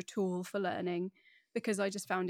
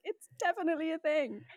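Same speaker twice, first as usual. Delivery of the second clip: emphatic insistence; 9 semitones higher, 3 dB louder than usual. Retold or imitated. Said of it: "I was like".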